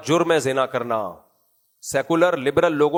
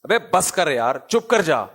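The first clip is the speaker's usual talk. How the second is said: mock scolding a friend. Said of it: "دوستوں کو جھڑکا جاتا ہے".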